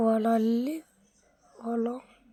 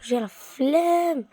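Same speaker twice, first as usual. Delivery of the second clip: lazy drawl; 3 semitones higher, much slower than usual. Real, not acted. Repeated, drawn out.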